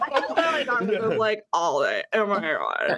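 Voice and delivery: lightly put-on Valley Girl voice. Shown as a demonstration. Guest demonstrating for amused hosts, light Valley Girl voice. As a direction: chatter with a hint of Valley Girl. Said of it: "I do a really good Valley Girl voice".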